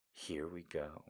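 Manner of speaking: soft, resigned whisper; 1 dread whisper. Real, not acted. Reader dreading the next passage, whispered. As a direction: brace yourself and murmur it. Dread aside before sex scene.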